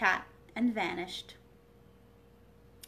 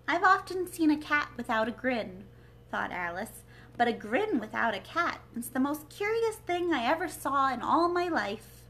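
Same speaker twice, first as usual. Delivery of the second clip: Alice amazed; 3 semitones higher, 4 dB louder than usual. Acted. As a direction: marvel out loud at the oddity. Alice marvels at the grin.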